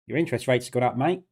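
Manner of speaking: a lightly put-on, hammy Australian accent; bad Australian accent. Greeting a viewer in Australia with a mock Australian accent. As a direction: toss off a quick Aussie accent, barely shifted. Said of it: "that was a really bad Australian accent".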